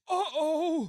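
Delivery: high, laughing mock alarm. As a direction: squeal it through a laugh.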